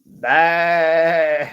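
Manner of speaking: a loud bleating "bah" in an odd voice; playful sheep noise. Pretend. Answering what a sheep says.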